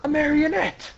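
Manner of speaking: high-pitched anime exclamation; hammed-up high dramatic reveal; Law. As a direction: announce the trick in mock alarm. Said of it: "Law's like".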